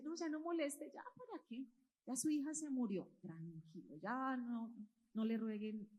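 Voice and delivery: softly waving someone off; hushed, resigned telling them to stop; quiet discouraging. Acted. Messengers telling Jairo not to bother the teacher, quiet and discouraging.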